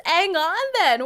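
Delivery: loud, drawn-out "ang on then"; dropped H. Shown as a demonstration. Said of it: "British people just skip the first letter".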